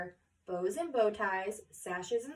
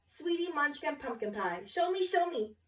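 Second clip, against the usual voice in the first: begging; 4 semitones higher than usual. Acted. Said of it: "begged the photographer".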